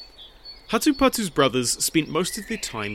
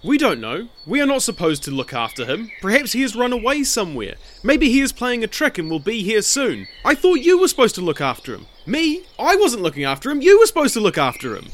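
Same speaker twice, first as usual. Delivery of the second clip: high, fast, louder bickering brothers; squabbling; 9 semitones higher, 4 dB louder, faster than usual. A narrator's reading. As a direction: blame each other in a rush. Brothers all talking at once.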